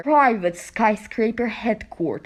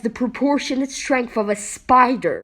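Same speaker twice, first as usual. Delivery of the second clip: indignant; 3 semitones higher, 4 dB louder than usual. Acted. Shoved around by a brute.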